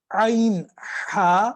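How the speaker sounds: عین pressed from the mid throat; throat letters demo. Shown as a demonstration. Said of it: "جب آپ نے عین کہنا ہے".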